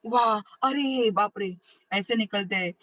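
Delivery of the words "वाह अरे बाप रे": sudden exclamations. Shown as a demonstration. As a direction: blurt them out as if startled, drawn out. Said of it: "हमारे मुंह से अचानक ऐसे शब्द निकलते हैं".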